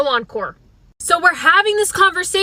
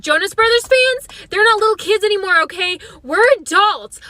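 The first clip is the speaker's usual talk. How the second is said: indignant; 4 semitones higher than usual. Retold or imitated. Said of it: "And I said".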